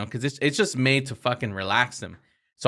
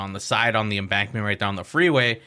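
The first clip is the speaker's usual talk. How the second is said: ordinary delivery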